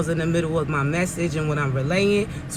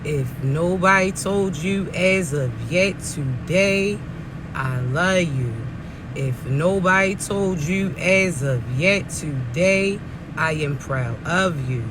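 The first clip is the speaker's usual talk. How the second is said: slow, low and gentle, like a loving whisper to a friend; slow heartfelt reassurance; tender affirmation; 5 semitones lower, slower than usual. Acted.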